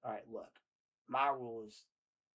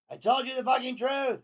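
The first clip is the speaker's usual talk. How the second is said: much higher and louder, screaming the words; shouted desperate text; 13 semitones higher, 10 dB louder than usual. Acted. Host reading JD's exclamation-point text as a high desperate scream. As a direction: yell it like a desperate ex begging. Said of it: "Exclamation point".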